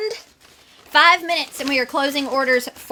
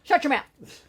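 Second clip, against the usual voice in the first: hammed-up fan outrage, much higher and louder; mock angry booing; 12 semitones higher, 8 dB louder, much slower than usual. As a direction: boo him off like a heel-hating crowd. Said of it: "I just got really angry".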